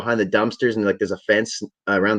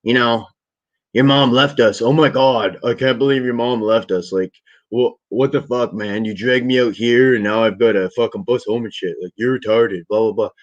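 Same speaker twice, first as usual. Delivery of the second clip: mock complaining. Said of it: "complainy and short-tempered".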